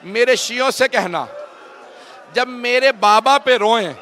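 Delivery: building to very high, very loud, slow crying wail; full wailing lament. Real, not acted. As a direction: wail it out like a mourner at the peak. Climactic majlis wail.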